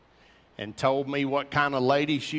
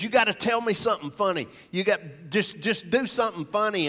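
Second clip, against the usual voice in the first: anxious pleading; 6 semitones higher, faster than usual. Retold or imitated. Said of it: "he's an emotional basket case".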